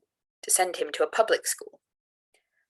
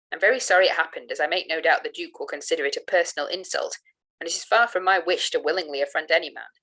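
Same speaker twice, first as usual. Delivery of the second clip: mild, firm emphasis of a displeased guardian; emphatic. A narrator's reading. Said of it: "added very emphatically".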